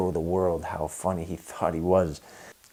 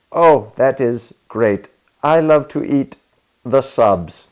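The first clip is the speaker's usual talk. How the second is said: loud, halting mock Hispanic accent, much louder; thick Hispanic accent; 6 semitones higher, 11 dB louder, slower than usual. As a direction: stumble through the line like a nervous Hispanic non-native speaker. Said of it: "in this very thick accent".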